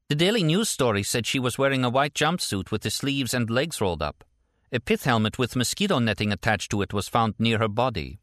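matter-of-fact report in a lifted voice; Stella, businesslike. Acted. Voices Stella reporting the news story.

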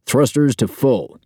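high, drawn-out command over the crew; snapped order. A narrator's reading. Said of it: "Duke snaps".

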